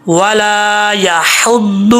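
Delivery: very slow ولا یحد with a clear throat ain; recitation demo. Shown as a demonstration. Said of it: "کیسے پڑھیں گے؟".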